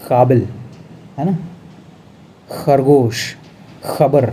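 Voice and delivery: काबिल with throat q, खरगोश and खबर with rasping kh; teacher modelling Urdu sounds; nukta sounds. Shown as a demonstration. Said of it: "अब इसको हम पढ़ेंगे".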